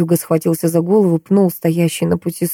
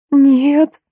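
moaned no; 9 semitones higher, 4 dB louder than usual. A narrator's reading. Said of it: "простонала она".

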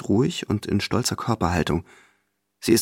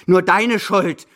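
higher, louder and very slow; angrier blame; 8 semitones higher, 5 dB louder, much slower than usual. Acted. Grandmother repeating the blame at her companion, more furious. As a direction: hammer the blame home harder. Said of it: "fällt sie wütend über mich her".

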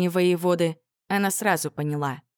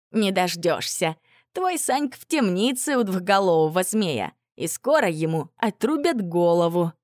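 gloating villain. Acted. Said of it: "Самозванец злорадно хихикнул".

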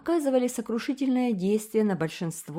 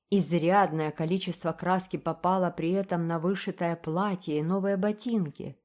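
ordinary delivery

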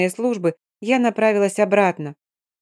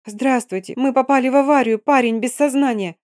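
rattling off; 5 semitones higher than usual. Acted. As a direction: rattle it off in panic. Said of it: "затараторила я".

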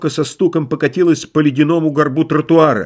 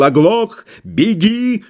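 furious roar; 7 semitones higher, much slower than usual. Acted. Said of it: "он бешено загремел".

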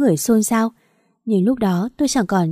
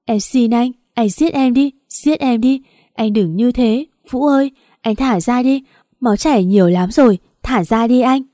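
high, straining, begging through tears; desperate weeping plea; desperate tearful pleading; 3 semitones higher than usual. Acted. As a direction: plead frantically as the blood flows. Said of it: "Tôi vừa khóc vừa ôm lấy anh".

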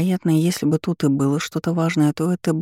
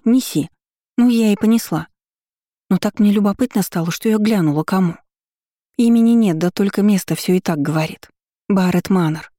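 higher, lively gossiping maid; eager gossip; 3 semitones higher than usual. Acted. Служанка оживлённо сплетничает. (оживлённая сплетница)

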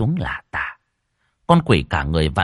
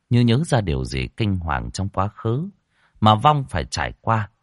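usual speaking voice

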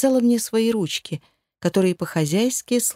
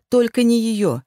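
plain reading voice

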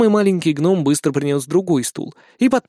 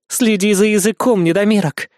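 raised, threatening snap; snarling Amanita; 6 semitones higher, 3 dB louder than usual. Acted. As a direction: warn the short dwarf with menace. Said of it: "рыкнула Аманита".

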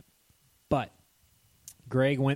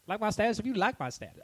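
mock slogan; 10 semitones higher, faster than usual. Parodying social media slogan.

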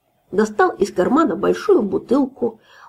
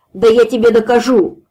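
put-on louder, boastful drunk yell; drunk shout; 3 semitones higher, 5 dB louder than usual. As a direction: bellow the challenge. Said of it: "закричал хозяин".

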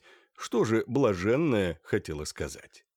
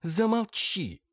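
pleading; 11 semitones higher, slower than usual. Acted. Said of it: "взмолилась Ирина Лукинишна".

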